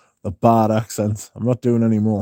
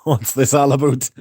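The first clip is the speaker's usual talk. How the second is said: put-on teasing Canadian accent; Canadian "aboot" on about; mock Canadian; 2 semitones higher than usual. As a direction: imitate a Canadian saying about. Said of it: "Eugene's been saying a boot".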